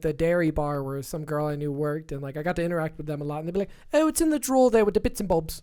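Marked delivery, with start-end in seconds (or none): 3.9-5.6 lightly imitated Irish accent; a hint of Irish shopkeeper accent. Dairy bar owner giving directions, light Irish accent. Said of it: "there was an Irish couple who owned".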